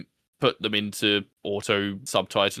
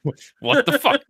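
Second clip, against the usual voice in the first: imitating the French chef, much higher and louder; a squeaky French cook, stunned; mock French accent outburst; 5 dB louder than usual. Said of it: "decided to do a French accent chef".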